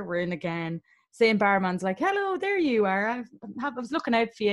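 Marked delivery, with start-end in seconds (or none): 2.0-4.5 flirty barman. Retold or imitated. Barman greeting a returning customer he fancies, flirty imitation. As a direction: lilt the hello like a pleased flirt.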